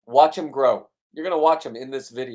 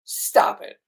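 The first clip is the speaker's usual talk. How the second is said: retold yell; 2 semitones higher, 6 dB louder than usual. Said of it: "I'm yelling at him".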